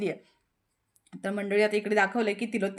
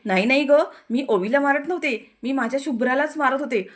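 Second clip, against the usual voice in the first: louder, quick defensive denial; hasty denial; 2 semitones higher, 4 dB louder than usual. Retold or imitated. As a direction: brush it off loudly, caught out. Mother hastily denies hitting. (घाईघाईने, मोठ्याने नकार देणारी आई)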